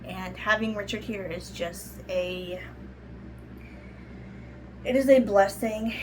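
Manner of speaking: normal talking voice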